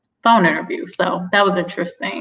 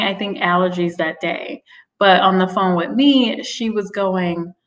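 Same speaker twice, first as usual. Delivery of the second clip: ordinary talk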